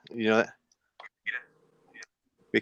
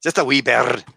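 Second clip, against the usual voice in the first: Scottish accent. Shown as a demonstration. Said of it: "I hear my Scottish accent".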